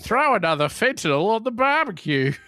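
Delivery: high, hammed-up Australian accent. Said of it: "I think I can do an Australian accent".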